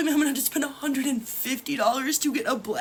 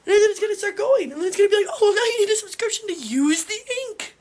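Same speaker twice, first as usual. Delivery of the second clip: exasperated rant; 3 semitones higher, 4 dB louder, faster than usual. Real, not acted. Ranting about a coming subscription.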